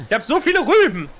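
high, loud whining complaint; exaggerated whine. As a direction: moan it up high.

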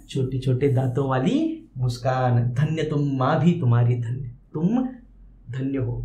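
ordinary talk, nothing marked

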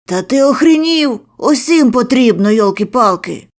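high, loud outraged yell; furious outburst. A narrator's reading. Narrator exploding at the debtor, furious yell. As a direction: blow up at him.

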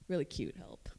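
soft playful whisper; whispered aside. Real, not acted. Speaker whispering a cute joke to the audience. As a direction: tuck it in as a secret joke.

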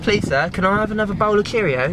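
playful put-on British plea; British accent. Shown as a demonstration. Vlogger joking with a breakfast plea, mock British accent. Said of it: "Do your British accent".

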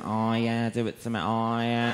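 mock sex noises in a Manc accent. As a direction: mimic a droning Manchester moan. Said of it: "she's got that horrible Manc accent".

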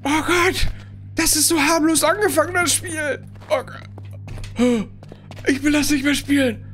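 high, tense and rattled; jittery, wants to quit; scared horror game streamer. Real, not acted.

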